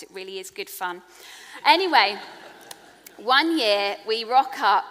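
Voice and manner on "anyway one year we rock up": brisk storytelling launch. Real, not acted.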